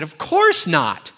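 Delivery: put-on high, loud laughing teen; son's voice. Son explaining to dad, high laughing teen voice. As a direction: laugh it off like a kid.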